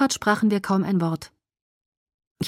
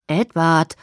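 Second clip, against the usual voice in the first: soft reproach; 5 dB louder than usual. Acted. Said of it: "sagte ich mit leisem Tadel".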